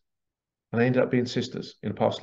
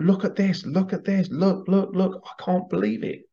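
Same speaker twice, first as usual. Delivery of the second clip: mock excited; 7 semitones higher than usual. People messaging about research finds.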